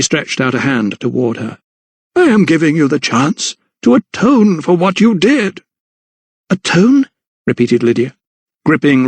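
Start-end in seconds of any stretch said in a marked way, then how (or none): 2.1-5.6 high, swooping preacherly villain; raised, intoning clergyman voice; menacing vicar. A narrator's reading. Menacing vicar offers atonement. 6.5-7.1 high, rising question; high-pitched shocked query; incredulous echo. A narrator's reading. Lydia repeats in disbelief.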